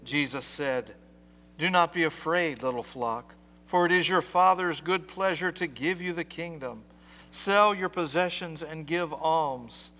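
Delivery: measured formal scripture reading; gospel reading. Acted. Priest reading scripture to the congregation, formal. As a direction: read the gospel aloud to the church.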